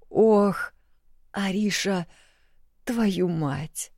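mild groan after a fall; understated groaning curse. A narrator's reading. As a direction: moan it out from the floor. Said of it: "простонал он".

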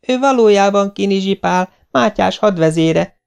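put-on high-pitched insistent boy; kiáltás. A narrator's reading. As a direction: blurt out the truth loudly. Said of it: "kiáltott Dénes". (magas hangú, kikiáltott vallomás)

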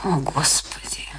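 slow, voiceless, hushed whisper; whispered dismay. Acted. Wife learning her husband saw the girl, whispering. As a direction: let it slip out as a stricken breath.

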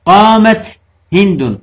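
قامت هند spelled out slowly, قامت stressed; slow example. Shown as a demonstration. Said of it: "مثل". ("قامت هند" ببطء وضغط على قامت)

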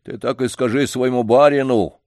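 put-on old man scolding the janitor's master. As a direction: raise your voice at him. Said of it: "возвысил голос дедушка".

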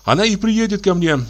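high, buoyant, happy voice; joyful. Acted. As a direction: lift up with sudden joy. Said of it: "прилив радости".

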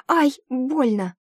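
high, slow, pained cry. A narrator's reading. Heroine cries out in pain from her hurt ankle. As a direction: cry out clutching a sore ankle. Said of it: "снова вскрикнула".

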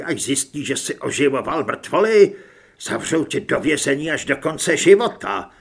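loud, heated reproach; angry condemnation. Acted. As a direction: berate him with what awaits him. Carlos angrily condemning Hood. (rozzlobená hlasitá výčitka)

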